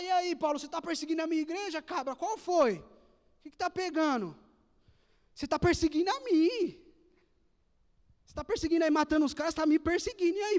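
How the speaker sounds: a cocky God calling Paul out; streetwise God. Pretend. God confronting Paul, slangy. (Deus provocando Paulo, mais alto e mais agudo)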